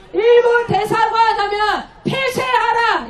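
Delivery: projected rally call and response; slogan demonstration. Shown as a demonstration. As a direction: model the protest chant for the crowd. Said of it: "이렇게 외쳐주십시오".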